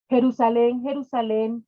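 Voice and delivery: calls the city's name out loud, then eases off; loud lament. Acted. Jesus laments over Jerusalén, calling loudly. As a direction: cry out to the city in grief.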